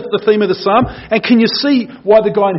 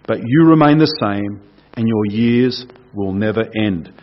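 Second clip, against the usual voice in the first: scripture reading; 2 semitones lower than usual. Acted. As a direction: paint the picture of eternity calmly. Reads Psalm 102 aloud.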